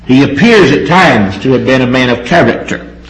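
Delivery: "appears" picked out with clear emphasis; stress on "appears". Real, not acted. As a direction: put the weight on "appears". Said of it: "I stress the word appears".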